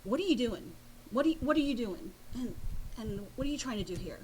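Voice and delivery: mock indignant, pushing back hard; a touch of a cowboy's indignant demand. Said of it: "he got even more indignant".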